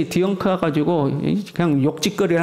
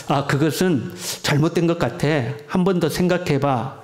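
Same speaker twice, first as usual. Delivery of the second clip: gentle advice. Shown as a demonstration. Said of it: "우리 같이 해봅시다".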